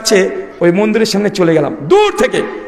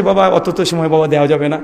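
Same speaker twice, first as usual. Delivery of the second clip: gentle, lower voice of a kindly priest; a priest gently turning a young man away; soft-toned priest; 5 semitones lower than usual. Retold or imitated. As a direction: let him down softly and kindly, pitched low. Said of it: "পণ্ডিতজি নরম সুরে বলছে".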